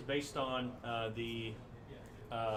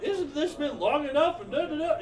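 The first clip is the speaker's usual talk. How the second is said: angry scolding; 11 semitones higher, 8 dB louder than usual. Pretend. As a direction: scold him for staying away. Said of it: "she's gonna immediately go off on".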